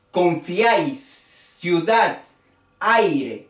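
"Confiáis, ciudad, aire" with each vowel group in one beat; un solo golpe. Shown as a demonstration. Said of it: "es en un solo golpe". ("Confiáis, ciudad, aire" con las vocales en un solo golpe)

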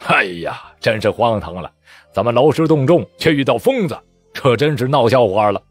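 sighing scorn. Acted. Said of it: "带头军官叹道".

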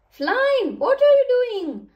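loud, high-pitched protest; crying out. A narrator's reading. Drenched engine Edward protests to Flynn, crying out. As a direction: yell it high in storybook indignation. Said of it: "Edward cried out".

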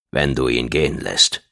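low, measured condition; stern Dashab. A narrator's reading. Dashab sets Gong a condition, low and firm. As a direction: set the condition in a deep, controlled voice.

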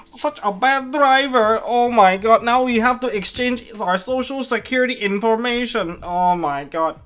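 high, loud over-the-top mock Asian accent; a hammed-up bad Asian driver voice in a mock Asian accent; terrible mock Asian accent. The crashing driver card panicking after a wreck, in a loud, high mock Asian accent. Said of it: "that was a very terrible accent".

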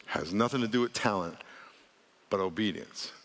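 measured repeat, "obedience" set apart and low; pause for emphasis. Real, not acted. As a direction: hold back before "but obedience". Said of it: "say it three times, then I'm gonna pause for emphasis".

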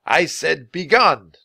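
loud, slow growled order; angry growl. A narrator's reading. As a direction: growl it out as an irritated guard. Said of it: "the guard growled".

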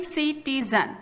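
सिटीजन split as सि, टी, जन; syllable by syllable. Shown as a demonstration. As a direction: say सिटीजन in three separate beats. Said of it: "आप ये सारे". (सिटीजन, तीन अलग-अलग हिस्सों में)

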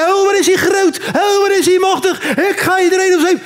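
mock terrorist boast; terrorist rant. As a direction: shout like a fanatic. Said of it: "ze net te tieren".

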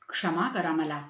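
low, deferential plea; humble apology. A narrator's reading. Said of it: "हात जोडून म्हणाले". (नम्रपणे, खालच्या सुरात माफी मागत)

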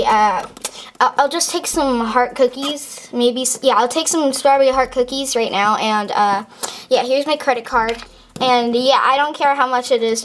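breathless and rushed; panting, in a hurry; out of breath. Acted. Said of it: "why are you out of breath?".

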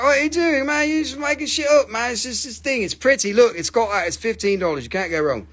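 husband mimicking Nicole mocking his sales pitch; imitating Nicole. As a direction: mimic the wife teasing him. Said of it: "Nicole is laughing at me. She's like".

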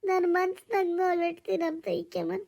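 acted tearful confession, voice breaking up; breaking into sobs. Woman about to tell the older woman her troubles, breaking into sobs. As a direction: let the words dissolve into crying.

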